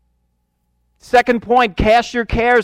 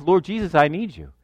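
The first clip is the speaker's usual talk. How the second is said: softer murmured prayer; quiet prayer; 3 semitones lower, 5 dB quieter than usual. Retold or imitated. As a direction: pray under your breath. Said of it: "that's how I live".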